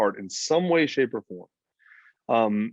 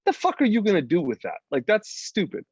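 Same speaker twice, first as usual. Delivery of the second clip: incredulous scoff; 7 semitones higher than usual. Retold or imitated. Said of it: "I'm like".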